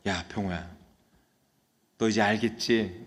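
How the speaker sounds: soft, low, imitated consoling pastor; gentle consoling. School pastor comforts the confessing student, softly consoling. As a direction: comfort him quietly, as if retelling a mentor. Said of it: "위로하면서".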